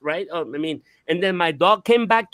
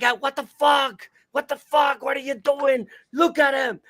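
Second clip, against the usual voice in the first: higher-pitched retold alarm; acted-out bewildered outburst; startled disbelief; 6 semitones higher than usual. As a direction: exclaim it in mock shock. Acting out the startled reaction.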